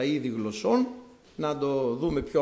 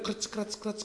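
crackling thorns; 5 semitones higher, 9 dB quieter, slower than usual. Shown as a demonstration. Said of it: "ο ήχος των ξερών ακανθών".

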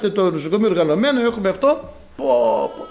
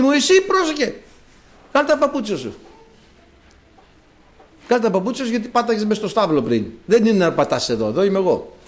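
voice of God; 3 semitones higher than usual. Retold or imitated. God telling Moses to take off his shoes, mildly commanding. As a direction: warn Moses from the burning bush.

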